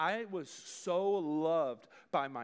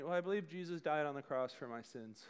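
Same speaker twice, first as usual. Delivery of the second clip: offhand and quieter, no weight behind it; casual; 5 semitones lower, 5 dB quieter than usual. Retold or imitated. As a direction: toss it off like small talk. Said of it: "you just say it really casually".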